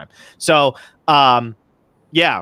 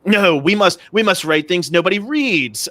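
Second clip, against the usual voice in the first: higher, emphatic mock literary snob; mock MFA classmates; 5 semitones higher than usual. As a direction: draw it out as lofty, imitated indignation. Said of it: "they'd be like".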